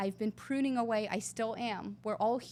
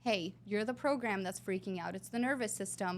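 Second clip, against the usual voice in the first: soothing self-talk. Retold or imitated. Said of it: "kind of calming down".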